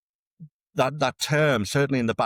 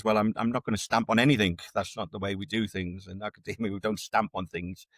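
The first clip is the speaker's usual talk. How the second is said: quiet, calm and unhurried, settling things down; a lightly voiced calm answer, softening as it goes; calm reply; 3 dB quieter than usual. To a retired major on the phone, calm and quiet. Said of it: "my first response was very calmly".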